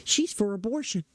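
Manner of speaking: lightly put-on voice of a pop star's sudden conversion; mock celebrity endorsement. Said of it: "It wasn't like she was at the house".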